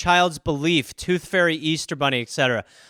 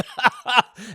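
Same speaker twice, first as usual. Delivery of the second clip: mock coughing; 5 semitones higher than usual. Sick contestant interrupts the judges, mock coughing. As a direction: fake a fit of coughs. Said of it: "he's coughing".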